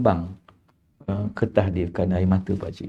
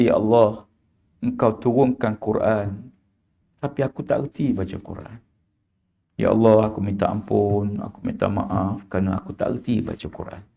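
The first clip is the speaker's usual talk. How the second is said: retold weeping prayer. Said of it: "sambil-sambil dia menangis tu".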